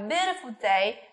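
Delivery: "day" sliding downward; falling intonation. Shown as a demonstration. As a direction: let "day" fall. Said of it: "Chúng ta cũng xuống giọng".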